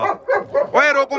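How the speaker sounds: long drawn-out yell to stop the dogs; loud stretched call. Real, not acted. Farmer yelling at dogs fighting over food, drawn-out shout. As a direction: bellow it out slowly to halt them.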